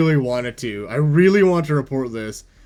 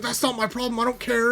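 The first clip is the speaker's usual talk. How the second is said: retold angry brush-off, pitched up; mock yelling cashier; 8 semitones higher, 4 dB quieter than usual. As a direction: imitate a coworker going off dismissively. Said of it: "she just started yelling off".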